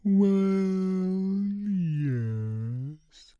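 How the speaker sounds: high sniffly little voice; snuffling. A narrator's reading. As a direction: snuffle it, half crying. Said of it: "Wilma snuffled".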